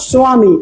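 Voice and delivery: স্বামী as "swa-mi", with a w glide; partly sounded ব. Shown as a demonstration. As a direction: let the ব in স্বামী sound lightly as w. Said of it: "এরকম বলে না".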